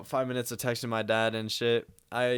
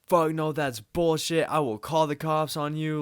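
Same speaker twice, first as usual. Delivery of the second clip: imitated threatening dad; 5 semitones higher, 4 dB louder than usual. Dad threatening son with the police, imitated outrage. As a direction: mimic a furious parent laying down a threat. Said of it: "Just threatening to call the police".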